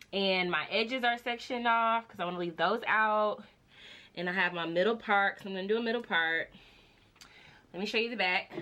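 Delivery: breathing hard while talking; a bit out of breath; heavy breathing. Real, not acted. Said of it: "Sorry if I'm breathing hard".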